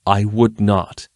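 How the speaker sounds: slow, gentle assurance. A narrator's reading. Danilo answering Erlin's angry accusation, gently. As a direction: ease down and reassure her slowly. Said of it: "he said gently".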